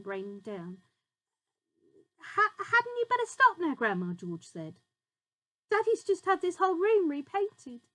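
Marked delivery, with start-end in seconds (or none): 2.2-7.8 high, stammering plea; worried boy. A narrator's reading. George nervously pleading with Grandma to stop. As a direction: fret at her nervously.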